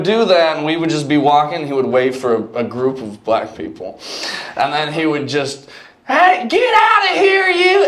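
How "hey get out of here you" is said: very high, slow mock white guy shout; Chappelle white voice. Buddy baiting strangers, high white-guy shout. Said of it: "the Dave Chappelle, like, white voice".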